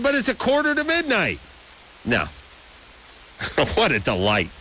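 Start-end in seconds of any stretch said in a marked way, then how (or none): 0.0-1.4 exasperated disbelief. Retold or imitated. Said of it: "I said".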